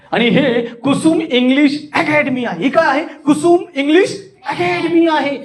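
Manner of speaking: high, amazed announcement; astonishment. Shown as a demonstration. Speaker presents Kusum English Academy, astonished. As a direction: stretch and lift each name in wonder. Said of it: "आश्चर्यानं सांगायचे".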